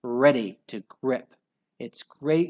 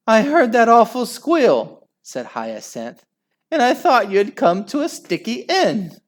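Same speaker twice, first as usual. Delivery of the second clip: louder, higher fretful voice; emotional, higher; 10 semitones higher, 10 dB louder than usual. A narrator's reading. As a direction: tell him how frightened you were. Wife tells of her fear.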